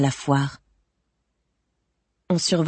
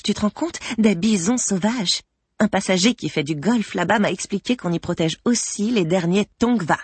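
gushing chef de cabine; 3 semitones higher than usual. Acted. Cabin chief chatting at a colleague about Los Angeles, gushing. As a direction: gush like a name-dropping colleague.

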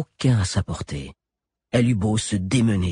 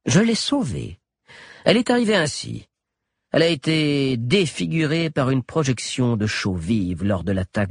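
high, smug mad doctor; sly doctor; 3 semitones higher than usual. A narrator's reading. Galien voiced.

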